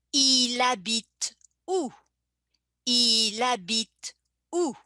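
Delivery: "il habite" run together as "i-labite", H silent; linked il habite. Shown as a demonstration. Teacher modelling the linked "il habite où" for learners. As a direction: slide the L straight into "habite". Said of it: "same thing in the pronunciation, I connect il with habit".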